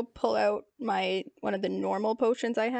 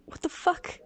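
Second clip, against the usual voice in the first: incredulous look; 7 semitones higher than usual. Pretend. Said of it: "kind of give him, like".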